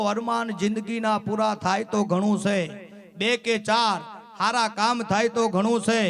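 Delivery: slow, measured poem recital; poem recitation. Acted. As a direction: recite each couplet, landing on તો ઘણું છે. (ધીમે ધીમે કવિતા પઠન)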